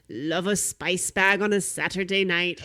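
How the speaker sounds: put-on light, lilting Irish accent on a spice bag review; a hint of Irish brogue. S0 imitating an Irish spice bag reviewer, mild Irish accent. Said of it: "I am gonna do an Irish accent".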